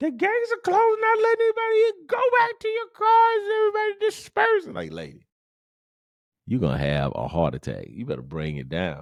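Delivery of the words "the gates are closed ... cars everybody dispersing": shrill, very high top-of-the-lungs scream. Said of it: "she screaming at the top of her head".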